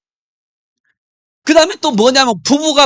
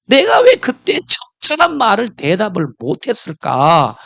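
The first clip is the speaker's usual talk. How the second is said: frustrated husband; 2 semitones higher than usual. Acted. Husband kicking himself after the argument, frustrated. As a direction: lightly play a husband cross with himself. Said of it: "막 성질 나가지고".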